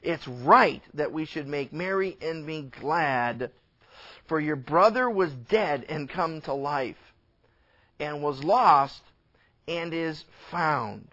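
lightly voiced father, solemn and unhurried; patient father. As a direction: explain slowly and gravely to your son. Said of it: "he says".

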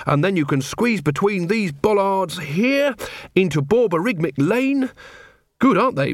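lightly voiced earnest guide; mildly animated, innocent tour-guide delivery; enthusiastic constable. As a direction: explain the route with keen local pride. Carrot proudly shows off his shortcut.

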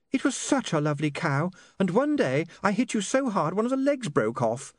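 high, wistful woman's voice; dreamy. A narrator's reading. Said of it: "said Saccharissa dreamily".

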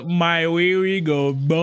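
meme quote. Retold or imitated. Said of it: "It reminded me of the".

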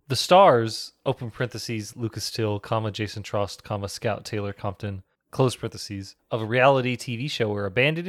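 reading out punctuation marks; dictating. Retold or imitated. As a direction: dictate it like a transcript. Reading blurb with spoken punctuation.

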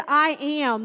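loud, forceful I am; powerful declaration. Retold or imitated. Preacher voicing Jesus to the soldiers, loud and powerful. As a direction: let the words carry power that knocks men down. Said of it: "there was such power".

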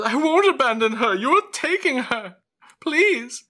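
high, anguished protest; desperate mother. Acted. Mother protesting as her baby is taken, desperate. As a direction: plead loudly at the top of the voice. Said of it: "She says".

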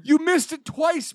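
very high, drawn-out accusation; mock scolding. Teasing Brian for missing it twice, high mock scolding. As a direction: stretch it out high in disbelief.

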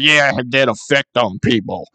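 lightly mumbled shrug; hint of mushy boss voice; imitating Chuck. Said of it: "He's like".

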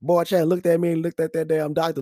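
ordinary delivery

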